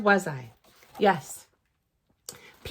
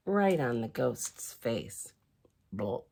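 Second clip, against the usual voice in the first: much lower, slow, dropping onto the blob; comic low splat; 12 semitones lower, 7 dB quieter, slower than usual. Acted. Reader voicing the ice cream blob landing on the ghost. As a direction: let it plop down low and slow.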